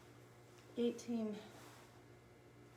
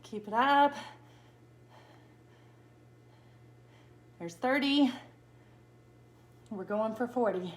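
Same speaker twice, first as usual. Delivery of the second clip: loud coaching; 4 dB louder than usual. Real, not acted. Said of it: "coaching the plank".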